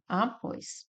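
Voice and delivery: após split into a-pós, pós stressed; syllable by syllable. Shown as a demonstration. Teacher splitting após into syllables for students. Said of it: "que separa dessa forma".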